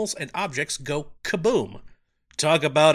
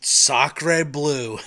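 put-on French accent; 4 dB louder than usual. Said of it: "connection with the French".

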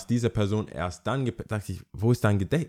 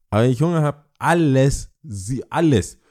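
higher and louder, getting heated; worked-up rant; 4 semitones higher, 4 dB louder than usual. Real, not acted. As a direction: work yourself up about hunger.

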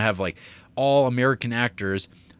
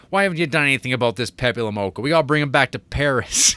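lightly voiced bossy Paris cop, fast; a hint of a pushy police chief barking orders; mock stern cop; 4 semitones higher, 5 dB louder, faster than usual. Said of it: "And he talks like this".

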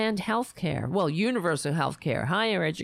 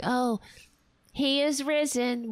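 mocking pious greeting; 7 semitones higher than usual. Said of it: "You know, like".

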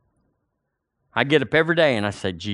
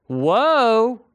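higher, awed exclamation; amazed whoa; 8 semitones higher than usual. Real, not acted. Preacher to congregation, awed whoa. Reacting to verse on grace.

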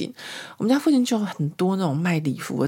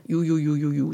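mock ululation. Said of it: "发出这个呦呦呦呦呦呦这样子的一个，一个声音".

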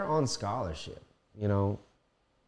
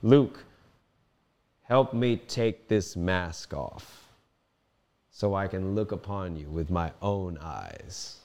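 a lightly voiced dying Anakin, slow; Anakin's last words; slower than usual. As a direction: call out Luke, then ease into a slow plea. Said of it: "when Anakin says".

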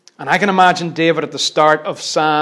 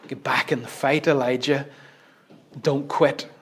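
soft, quiet urging; a hushed voice of encouragement; whispered divine voice; 2 semitones lower, 6 dB quieter than usual. Retold or imitated. God urges Elijah back to the fight, softly. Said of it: "he hears that whisper saying".

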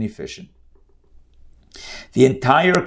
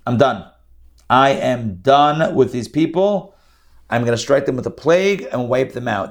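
fed-up God; 5 dB louder than usual. Retold or imitated.

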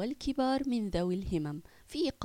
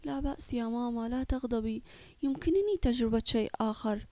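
comforting. Acted. Son comforting his mother in the car, gentle. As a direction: soothe his upset mother. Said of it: "وهو يحاول أن يخفف عن والدته".

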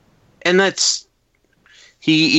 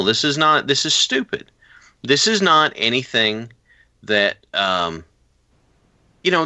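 exasperated Moxley; 4 semitones higher than usual. Retold or imitated. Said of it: "and he's like".

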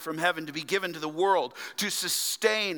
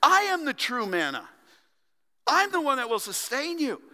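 higher, louder, urgent plea; Jesus pleading; 11 semitones higher, 5 dB louder, faster than usual. Retold or imitated. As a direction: press it on them with rising urgency. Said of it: "He says".

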